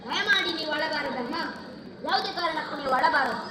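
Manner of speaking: soft-edged, restrained pleading; gentle consoling. Acted. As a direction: soothe a weeping mother. Son consoles his weeping mother. (ತಾಯಿಯನ್ನು ಸಂತೈಸುವ ಧ್ವನಿ)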